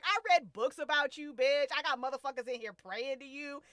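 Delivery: loud, high, overwrought confession; hammed-up lovesick outburst; pining rant. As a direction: gush it out, voice climbing. Acting out the character's pining rant.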